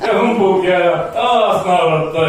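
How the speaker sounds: giddy hype. Acted. Hypnotist making volunteers laugh harder and harder, giddy high-pitched hype.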